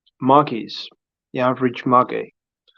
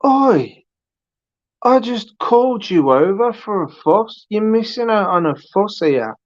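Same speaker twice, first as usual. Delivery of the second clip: high-pitched coaxing call to a cat, much higher; 8 semitones higher than usual. Retold or imitated. Owner calling the indifferent cat over for a fuss, high coaxing voice. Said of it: "and you're like".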